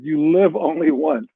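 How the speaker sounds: slow, deliberate reading of the book's odd word order; slow quoted line. Shown as a demonstration. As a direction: spell out the quote slowly, word by word. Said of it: "the quote of the book is".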